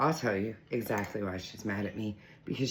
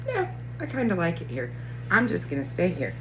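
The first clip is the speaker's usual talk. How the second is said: higher, cutesy cat voice; voicing the cat; 6 semitones higher, 4 dB louder than usual. Owner voicing cat refusing to leave the room, cutesy. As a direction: speak for the stubborn cat, sweetly. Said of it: "and she's like".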